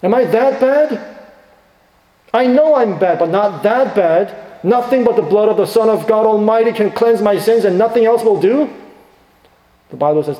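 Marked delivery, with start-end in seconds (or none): 0.0-8.7 mock self-righteous sinner. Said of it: "And everyone says".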